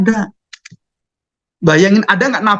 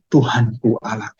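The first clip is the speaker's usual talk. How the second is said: reverent confession; 8 semitones lower, 4 dB quieter, slower than usual. Retold or imitated.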